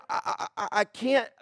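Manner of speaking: mock stuttering hesitation; flustered stammer. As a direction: stumble over the first word, acting at a loss. Flustered convert stammering in acted quote.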